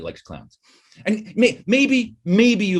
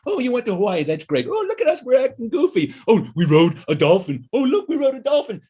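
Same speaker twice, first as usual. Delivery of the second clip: mock giddy tourist; 8 semitones higher than usual. Mocking vacation photo sharers.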